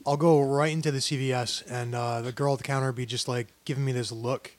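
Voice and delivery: low, hushed storytelling; quiet, low-pitched flirtation tale; unusually sultry telling. Real, not acted. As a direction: tell it softly, letting it sink low. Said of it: "I've never heard you talk like this".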